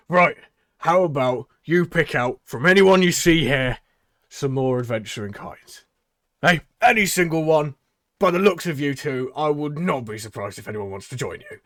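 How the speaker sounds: loud, high pitchman; showman voice. Acted. Tabaxi urging the heroes to recruit, loud pitchman. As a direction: egg them on to pick recruits. Tabaxi urges picking members.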